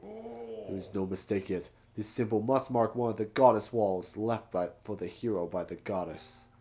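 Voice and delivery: overexcited researcher voice; startled Gorko. Acted. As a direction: jump out of your skin, then marvel. Reads Gorko's text in voice.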